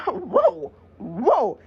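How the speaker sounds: high first whoa, dropping on the second; shocked disbelief. Real, not acted. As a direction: stop short in disbelief with a laugh. Shocked at his gun claim.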